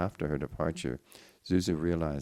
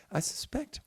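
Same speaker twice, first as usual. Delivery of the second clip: reassuring; 9 semitones higher, 3 dB quieter than usual. A narrator's reading. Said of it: "Jean Noel reassured her".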